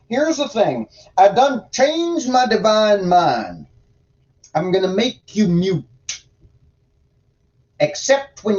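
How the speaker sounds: a hint of a stern, exasperated deity, now and then throaty; God voice. Reader voicing God scolding Ezekiel for sitting idle, lightly put-on folksy God voice. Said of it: "God voice is a little hard on the throat".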